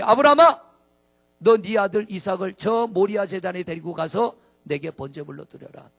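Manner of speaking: loud, booming divine call; God calling out. Acted. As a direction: call Abraham from heaven, commanding. God commanding Abraham. (하나님이 아브라함을 크게 부르듯)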